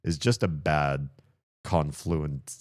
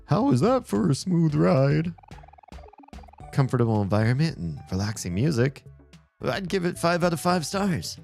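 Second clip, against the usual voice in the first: clown voice. Acted. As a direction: play it like a cheerful clown. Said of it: "a clown voice or something".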